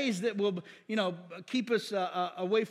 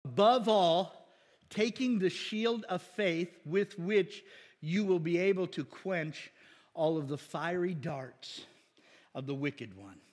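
deliberate, measured scripture reading; slow, clear, careful reading aloud; 3 semitones lower, slower than usual. Shown as a demonstration. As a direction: read each word slowly and carefully.

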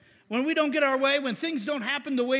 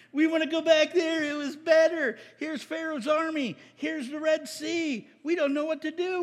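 pitched-up griping, acted out; complaining; 5 semitones higher than usual. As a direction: moan it as a panicky crowd. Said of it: "they're complaining".

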